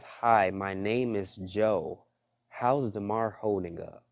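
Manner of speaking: retold calm, civil introduction; measured, polite greeting in a retelling. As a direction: introduce yourself slowly and civilly, as if quoting someone. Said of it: "Like, real calm and real civil".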